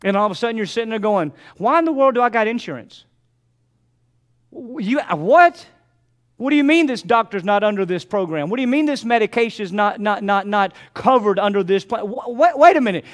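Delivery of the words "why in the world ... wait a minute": imitating a flustered caller, pitched higher and louder; mock exasperation. Patient arguing with the insurance company, mock exasperated. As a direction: act out the outrage of a patient on the phone.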